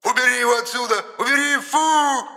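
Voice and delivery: very high, rising squeals of disgust; panicked squeal. Acted. Trapped spirit begs Genka, squealing in disgust. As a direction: shriek to get it away.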